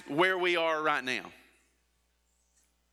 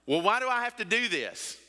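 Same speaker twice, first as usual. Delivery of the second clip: mock child, pitched higher, whining; whiny kid; 6 semitones higher than usual. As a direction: play a complaining kid asking why. Child questioning parent.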